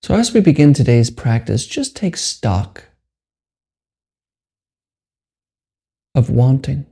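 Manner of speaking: measured meditation guide with long pauses; guided meditation. Acted. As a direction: leave long silences between short, unhurried phrases.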